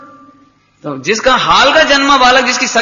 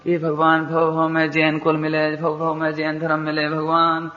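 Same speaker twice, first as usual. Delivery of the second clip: soft, low, monotone prayer recital; imitated devotee's prayer; 4 semitones lower, 8 dB quieter than usual. Preacher imitating devotees begging God for birth after birth, soft droning prayer. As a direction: murmur it like a routine prayer chant.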